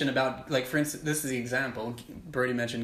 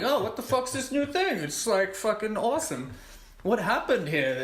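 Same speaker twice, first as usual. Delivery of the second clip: much higher, gleeful disbelief; wide-eyed discovery, pitched way up; amazed brewers; 7 semitones higher than usual. Retold or imitated. Brewers marvel at the accidental new beer, high and amazed.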